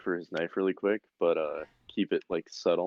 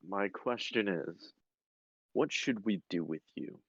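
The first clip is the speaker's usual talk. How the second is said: quiet menace; 6 dB quieter than usual. Acted. Interrogator toying with the captured spy, quietly menacing.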